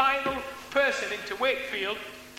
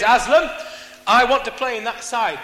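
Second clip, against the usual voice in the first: loud, imitated West Indian voice; West Indian accent; 2 semitones higher, 5 dB louder than usual. Fellow prisoner demanding a place on the cricket side, West Indian accent. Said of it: "in his West Indian voice".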